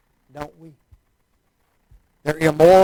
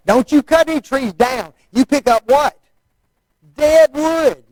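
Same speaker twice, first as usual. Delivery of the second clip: higher, louder stern instruction; calling to kids; 7 semitones higher, 4 dB louder than usual. Retold or imitated. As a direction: bark orders at campers. Adult instructing kids at camp.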